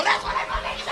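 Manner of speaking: breathless laughing cry; punchline through laughter; laughing exasperation. Retold or imitated. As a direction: wheeze it out in disbelief.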